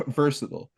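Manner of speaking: versatile ending in a short "-tl"; American pronunciation. Shown as a demonstration. Host admitting the one word he mispronounces, American pronunciation. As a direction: say versatile the American way, rhyming with turtle. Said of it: "it's supposed to be versatile".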